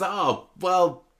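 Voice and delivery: mildly acted huffy outburst, high at first. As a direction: retell it in a huff. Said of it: "gets all huffy and says".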